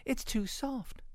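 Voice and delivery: slow, high, unforced voice; snuffing Mama pig. A narrator's reading. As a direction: draw it out up high. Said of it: "snuffed Mama Sniff".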